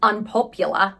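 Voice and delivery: careful try at an Australian accent; attempted Australian accent. Shown as a demonstration. Vlogger naming friend's podcast, trying an Australian accent. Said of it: "Wait, I can do this".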